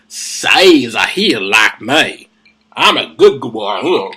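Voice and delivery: lightly voiced, low slow simple fellow; a hint of a dim, slow pleader; mock simpleton plea. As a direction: drop low and drag the words out. Mock aside as Paul pleading.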